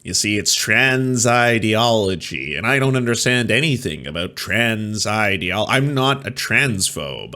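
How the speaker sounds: mock defensive speechifying with long vowels; Caleb Maupin. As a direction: stretch the key words, lightly voiced impression. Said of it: "he's pulling a full Caleb Maupin".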